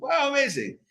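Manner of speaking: high-pitched congregant's wow of amazement; mock amazed. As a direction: exclaim it high, as if thrilled by the news. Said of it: "I was like".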